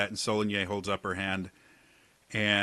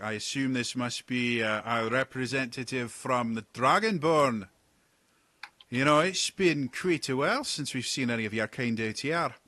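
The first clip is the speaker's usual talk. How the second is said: a hint of a gruff captain, somewhat higher; lightly voiced captain; 3 semitones higher than usual. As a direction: address the stranger with guarded courtesy. Captain addresses Dragonborn.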